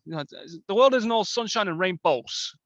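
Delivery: a light hint of a Bronx accent; half-hearted Bronx accent. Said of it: "like, a Bronx, um, accent".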